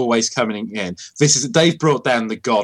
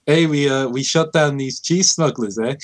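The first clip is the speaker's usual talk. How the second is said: fake Canadian accent. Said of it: "it's like a fake Canadian accent".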